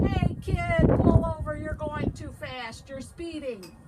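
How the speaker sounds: high, loud police officer's yell. A narrator's reading. Police officer pulls a speeding kid over, yelling. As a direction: call out loudly to stop a speeder. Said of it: "rolled down the window and yelled".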